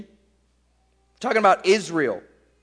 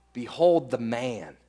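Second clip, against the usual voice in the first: softer, low, measured announcement; unthreatening; 7 semitones lower, 5 dB quieter than usual. Retold or imitated. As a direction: present him calmly, with no threat in it. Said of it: "There's no threat here".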